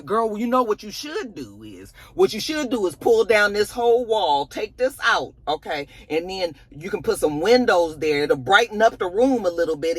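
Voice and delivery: a know-it-all friend full of big plans; bossy know-it-all friend. Retold or imitated. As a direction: lay out the grand plan like she owns the place. Voicing a bossy friend's advice.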